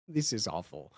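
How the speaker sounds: ordinary delivery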